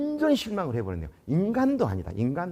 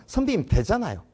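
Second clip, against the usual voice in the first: smug; 2 semitones higher than usual. Retold or imitated. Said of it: "뭐 이런 우쭐거리는 마음으로".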